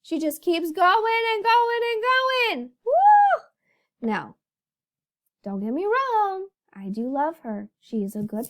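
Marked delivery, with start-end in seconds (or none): 0.0-3.0 exasperated. Real, not acted. Exasperated about friend.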